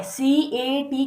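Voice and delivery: सीएटी read slowly letter by letter, C A T; spelled out letters. Shown as a demonstration. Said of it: "जैसे लिखते क्या है". (अक्षर अलग-अलग बोलें)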